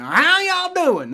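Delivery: slow, high drawled Mid-South Appalachian greeting; Appalachian accent. Retold or imitated. Showing how Kentucky family talks, slow high Appalachian drawl. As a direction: stretch it out like a Kentucky hill-country relative, Appalachian twang. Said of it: "stereotypical, like, you know, Mid-South accent that's, you know, got a very long drawling".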